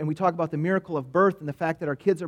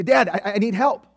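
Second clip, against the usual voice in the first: put-on kid asking help; 3 semitones higher, 3 dB louder than usual. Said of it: "They say".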